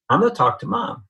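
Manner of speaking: put-on high, eager little boy voice; young child. Small boy deciding to help his mother, pitched high.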